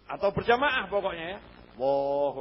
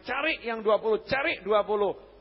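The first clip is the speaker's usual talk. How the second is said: louder, higher rallying call; urging encouragement; 4 semitones higher, 5 dB louder than usual. Acted. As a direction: spur the congregation on. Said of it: "kalau mau ngomong itu semangati".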